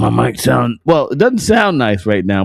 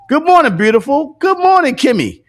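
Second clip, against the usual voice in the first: high sing-song greeting; 11 semitones higher, 4 dB louder than usual. Real, not acted.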